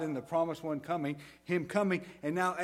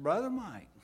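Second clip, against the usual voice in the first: higher-pitched southern greeting; southern accent; 6 semitones higher than usual. Retold or imitated. Pastor greeting his friend by phone message, in a southern accent. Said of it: "in that southern accent".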